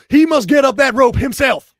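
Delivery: barked order, loud and high; drill sergeant. Pretend. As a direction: bark it like a drill instructor. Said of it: "it's just like a drill sergeant".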